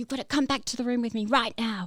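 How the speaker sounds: insistent, loud, demanding yelling. Retelling what a man in the crowd yelled at the speaker: retelling a yell. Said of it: "he's just yelling at me".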